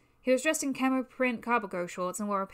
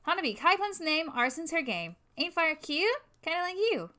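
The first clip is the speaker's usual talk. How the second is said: flirty arsonist voice; 6 semitones higher than usual. Acted. Flirty arsonist character introduces herself.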